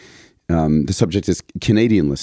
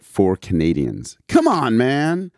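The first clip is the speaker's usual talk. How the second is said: put-on Canadian accent; 4 semitones higher, slower than usual. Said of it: "ditch the bad impression".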